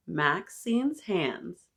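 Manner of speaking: drawn-out, deliberate title; title read slowly to the kids. Shown as a demonstration. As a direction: savor each word of the title. Reading book title slowly.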